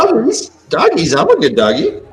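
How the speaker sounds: lightly voiced happy dog; cartoon dog. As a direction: speak as an eager dog. Voicing the dog joining call.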